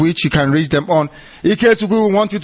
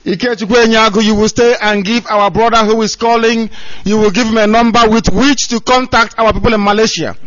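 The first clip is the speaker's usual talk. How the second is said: calling out; 4 semitones higher, 4 dB louder than usual. Real, not acted. Calling to a caller on phone.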